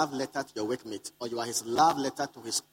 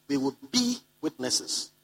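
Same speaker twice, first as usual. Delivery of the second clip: slow and emphatic; 2 semitones higher, slower than usual. Shown as a demonstration. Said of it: "the emphasis of Jesus".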